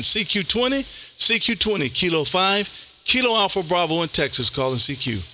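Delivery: radio CQ call. Acted. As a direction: announce the call sign like a radio operator.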